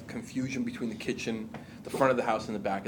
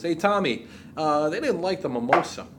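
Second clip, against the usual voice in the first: imitating a polite server, pitched up; 4 semitones higher, 3 dB louder than usual. Server tells the bartender about a rejected drink, imitated politeness. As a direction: politely break bad news, a bit higher. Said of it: "server comes over all polite".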